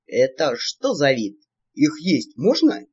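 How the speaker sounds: низкий, медленный голос рогача, слегка озвученный; спроси тяжело и неспешно, как рогач. A narrator's reading. Рогач разглядывает птицу. (слегка озвученный рогач, неторопливо)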